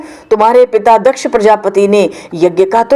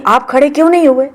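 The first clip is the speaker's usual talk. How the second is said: indignant Sati; 6 semitones higher, 4 dB louder than usual. Acted. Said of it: "सती जी कहती".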